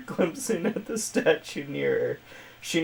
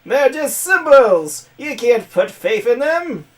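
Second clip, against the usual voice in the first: high, loud cackling villain voice; Skeletor; 8 semitones higher, 9 dB louder than usual. Acted. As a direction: screech it like a cartoon skeleton villain. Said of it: "I'm gonna give her Skeletor's voice".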